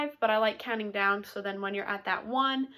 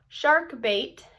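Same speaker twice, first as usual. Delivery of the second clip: call out; 4 dB louder than usual. Shown as a demonstration. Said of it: "you're gonna shout out".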